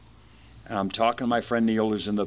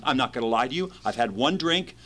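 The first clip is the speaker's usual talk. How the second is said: put-on sober voice; 4 semitones higher than usual. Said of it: "I'm talking kind of in this voice".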